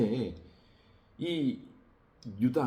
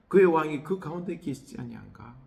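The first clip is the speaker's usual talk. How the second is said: louder, pleading cry to God; people's complaint; 3 semitones higher, 6 dB louder than usual. Retold or imitated. Preacher voicing Judah's people crying out to God, pleading and louder. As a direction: voice the people demanding why God is absent. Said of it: "이제 유다 백성들은 그러는 거예요".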